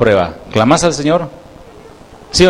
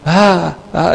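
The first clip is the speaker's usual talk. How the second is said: imitated cries of alarm; 4 semitones higher than usual. People on a rooftop watching the tsunami, mock cries of alarm. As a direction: mimic onlookers gasping at disaster. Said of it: "decían".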